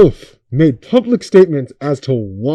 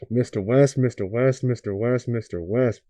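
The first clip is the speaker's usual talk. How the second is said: fading, softer and softer calls; pleading softly; 5 semitones lower, 8 dB quieter than usual. Pretend. Pleading with a rapper to wake up, fading away. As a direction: call his name, fading each time. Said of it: "please wake up".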